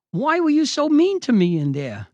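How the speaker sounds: high, loud mock-wounded plea; imitating tearful. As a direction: whine it like a hurt bully. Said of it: "He's got tears in his eyes".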